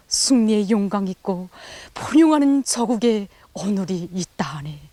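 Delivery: poem recitation. Retold or imitated. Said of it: "이런 시도 지었습니다".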